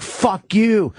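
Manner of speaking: high pitched mock yell; retold scream. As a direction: fire it back at him, pitch way up. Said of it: "We were screaming at each other".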